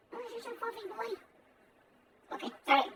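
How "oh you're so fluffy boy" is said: pet voice. Real, not acted. Cuddling the cat.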